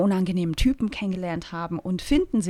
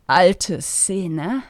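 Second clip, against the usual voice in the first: bitter; 2 semitones lower than usual. Acted. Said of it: "wiederholte Gertraud Delling bitter".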